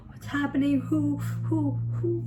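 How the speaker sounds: breathy panicked whisper with puffs of air; scared reenactment. Retold or imitated. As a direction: act out waking up frightened, half whispered. Acts out waking scared, looking around.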